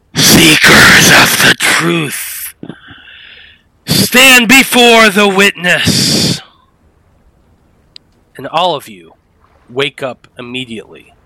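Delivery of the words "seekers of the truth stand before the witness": very loud, very high, drawn-out screaming voice. Voicing a voice that wakes the sleepers: voice screaming in their heads. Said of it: "hearing this sound scream out in each of your heads".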